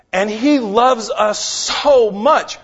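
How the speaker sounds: fervent swell. Acted. Preacher exults over God's love to the congregation. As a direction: lift the line up and stretch it out.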